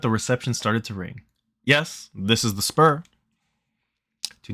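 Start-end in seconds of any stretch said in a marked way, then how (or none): 1.6-3.0 Obama-like voice. Acted. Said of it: "you did the voice that you do when you do Barack Obama voice".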